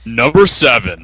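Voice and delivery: slow fighting game announcer call. Acted. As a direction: stretch it out like a ring announcer. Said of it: "Dave putting on his new announcer voice".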